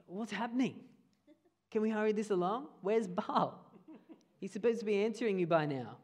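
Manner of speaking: lightly acted taunting questions. Preacher voices a prophet mocking rivals whose god stays silent, mildly taunting. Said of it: "this rant of taunting them".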